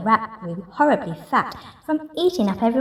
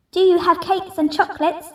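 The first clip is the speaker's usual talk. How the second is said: higher eager cry; greedy cry; 8 semitones higher, 3 dB louder than usual. Acted. Rat crying into the cave for chocolates. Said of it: "the highway robber cried".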